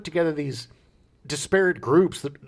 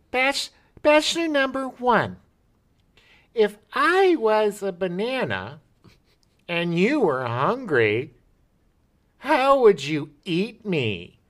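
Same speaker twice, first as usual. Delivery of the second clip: slow, higher flirty question; flirty contestant; 7 semitones higher, slower than usual. Retold or imitated. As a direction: tease the bachelor slowly. Imitating dating game contestant.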